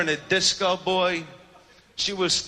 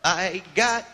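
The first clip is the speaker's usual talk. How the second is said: smooth pickup line; 3 semitones higher, slower than usual. Retold or imitated. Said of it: "I'm like".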